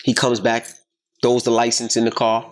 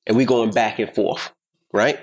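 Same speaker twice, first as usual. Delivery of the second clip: ordinary talk, nothing marked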